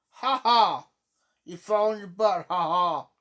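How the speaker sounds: loud teasing ha ha; mock laughing. Shown as a demonstration. Showing the mother how to laugh off a toddler's fall, teasing. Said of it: "Laugh about it".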